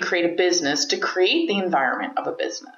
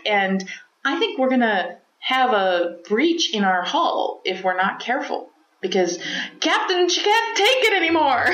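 bad Scottish accent; 2 semitones higher than usual. Engineer warns captain the hull can't hold, bad Scottish accent. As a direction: ham up a weak Scotty-style Scottish engineer warning. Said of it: "I can't do a Scottish accent".

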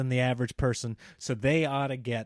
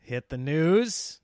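a slow, half-hearted Barkley drawl; a weak hint of Barkley; bad Charles Barkley impression; 4 dB louder, slower than usual. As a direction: lightly mimic the basketball pundit. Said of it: "That was a terrible Charles impression".

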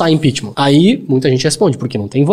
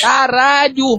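shocked; 11 semitones higher, much slower than usual. Real, not acted. Shocked reaction to the news.

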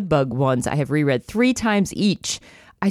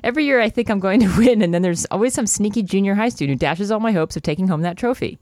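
Gertie's voice; 4 semitones higher than usual. Acted. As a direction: read the trophy line with giddy lift. Gertie's line reread after interruption.

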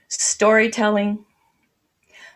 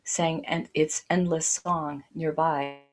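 poetry reading. Acted. Reads her poem aloud.

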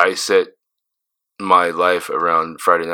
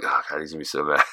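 soft, low mock dread; retold worry; 4 semitones lower, 8 dB quieter, faster than usual. Imagining Marcus being angry, soft worried mutter. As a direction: mutter it like you're already in trouble. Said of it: "I was like".

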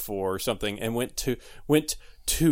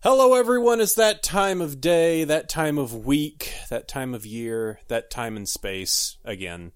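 showy host intro; 2 semitones higher than usual. Acted. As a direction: open big, then let it sink. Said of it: "your intro was very subdued".

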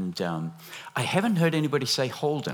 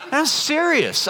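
laughing; 6 dB louder, slower than usual. Real, not acted. Laughs at his own joke.

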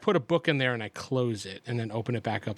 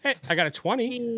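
excited; 12 semitones higher than usual. Real, not acted. Excited dice roll.

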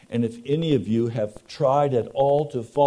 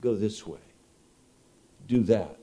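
soft, gentle voice of God; gently steer him away, softly; tender voice of mercy; 5 semitones lower, 5 dB quieter than usual. Retold or imitated. God tenderly guiding the preacher, soft and gentle. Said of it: "tender words of mercy saying".

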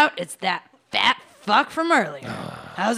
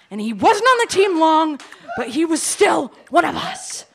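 rallying shout; 4 semitones higher than usual. Acted. Rallying the team.

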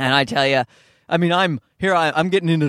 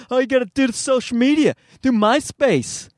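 raised, put-on hype voice; pushy advice-giver; 9 semitones higher than usual. People urging comic onto social media, pushy. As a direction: rush it high, then stretch the last words.

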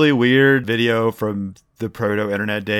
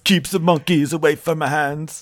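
mock German accent, imitating the video; weird German accent; 3 semitones higher than usual. Quoting the banana hands video to friends, weird German accent. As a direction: quote it in an odd German accent. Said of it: "this kid saying this weird German accent".

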